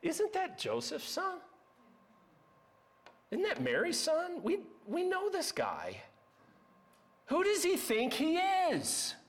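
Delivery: high-pitched mock-incredulous gossips; scoffing townspeople. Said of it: "you know what they say".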